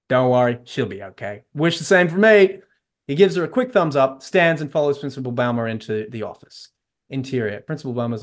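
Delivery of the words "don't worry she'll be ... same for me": put-on heavy American South accent. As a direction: do a terrible Texan accent. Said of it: "Dean, in a heavy American South accent".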